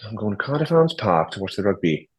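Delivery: put-on Welsh lilt; attempted Welsh accent. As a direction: imitate a Cardiff local. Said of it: "you can do them in Welsh".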